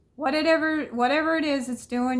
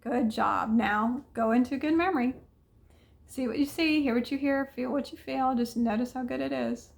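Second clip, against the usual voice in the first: guided meditation. Acted. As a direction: lead them gently into a good memory. Guides into good memory again.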